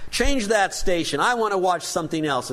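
mildly bossy, imitated cartoon demand; a touch of bossy insistence, retold; lightly acted order to a brother. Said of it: "she immediately makes her demands".

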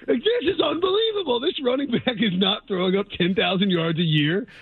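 high whiny complaining fan; mock an outraged homer. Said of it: "you're like".

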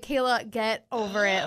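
a short shouted order; mock shout. Scolding a drunk friend, shouted order. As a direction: snap her out of it with a shout. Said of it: "And I was like".

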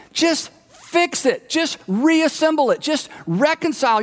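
the onlooker who thinks it's silly; exasperated outsider. Retold or imitated. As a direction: roll your eyes at them. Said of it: "you think to yourself".

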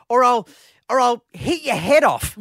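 laughing through a retold threat; laughing quote. Host retelling his wife's threat to the old lady, laughing. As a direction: giggle out the wife's lame threat. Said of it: "all she could come up with".

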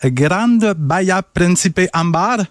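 Spanish accent. Shown as a demonstration. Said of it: "Je sais pas si mon accent".

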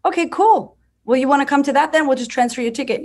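chirpy fake-casual okay cool; hammed-up cheerful host voice; mock breezy reply. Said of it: "And I was like".

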